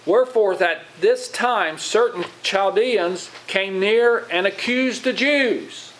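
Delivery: slow, emphatic Bible reading; measured pulpit reading, rising in pitch; scripture reading. Acted. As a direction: proclaim the verse, stretching each phrase. Reads scripture aloud.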